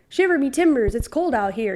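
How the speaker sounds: a light, understated pirate accent; lightly voiced pirate, held back; half-hearted pirate. Shown as a demonstration. Pirate line to her friend, barely performed. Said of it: "I did not put everything that I have into that".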